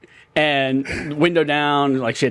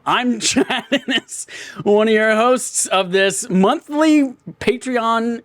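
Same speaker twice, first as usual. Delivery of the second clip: laughing while talking; 8 semitones higher, slower than usual. Real, not acted. Laughing through intro.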